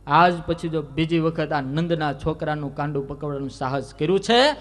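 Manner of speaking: loud, high defiant warning; fierce threat. Acted. Young Krishna warning Prabhavati never to grab him again, loud and high. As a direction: throw the threat back in her face.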